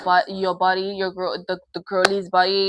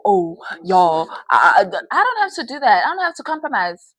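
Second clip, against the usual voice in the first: mock man's excuse; 6 dB louder than usual. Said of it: "compromise my pleasure for".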